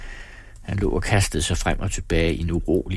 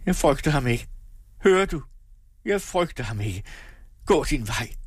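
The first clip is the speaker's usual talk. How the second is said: defiant, raised-pitch threat; mild menace; threatening; 6 semitones higher than usual. A narrator's reading. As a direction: warn her off defiantly. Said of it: "truede hun af moren".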